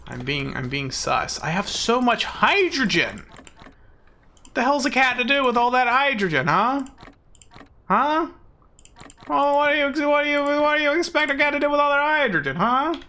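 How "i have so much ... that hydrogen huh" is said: much higher, loud cartoon cat with a mock Italian swagger; Italian Garfield. Streamer griping about hydrogen as Italian Garfield, high and loud. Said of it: "I kinda sound like Italian Garfield".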